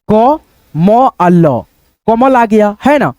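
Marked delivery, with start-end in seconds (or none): 0.1-1.6 letters drawn out one by one, low; teacher sounding out letters; slow spelling out. Shown as a demonstration. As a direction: spell each letter slowly for the student. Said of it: "teacher spells out letters".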